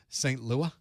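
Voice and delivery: LOUIS tried as "LOO-uh", final s dropped; LOUIS left open-ended, rising, without its s; trying a pronunciation. Shown as a demonstration. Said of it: "It's one of those, right?".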